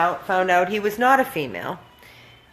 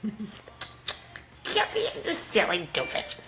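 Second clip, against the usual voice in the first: talking to a dog; 8 dB quieter, slower than usual. Real, not acted. Calling the dog.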